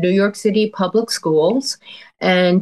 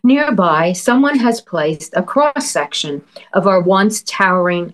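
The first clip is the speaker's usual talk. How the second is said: poem reading. Acted. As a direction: read it like a poet savoring images. Poet reads her poem aloud.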